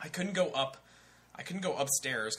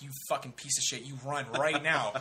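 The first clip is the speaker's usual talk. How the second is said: mock drill-order urgency, building; scolding inner voice; 4 dB louder than usual. His brain ordering him to keep running, mock scolding that builds. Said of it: "the little voice in my, my brain".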